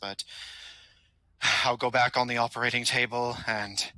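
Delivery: lightly voiced loyal minion, matter-of-fact; a hint of a courteous servant of a villain; polite henchman. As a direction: play an injured underling, formal and composed. Game master voices wounded henchman.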